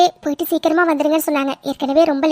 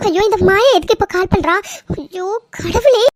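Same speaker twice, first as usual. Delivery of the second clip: alarmed dread; 3 semitones higher than usual. Acted. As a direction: panicky wail at an unwanted call. Dreaded caller rings while she frets. (பதற்றத்தில் புலம்பும் குரல்)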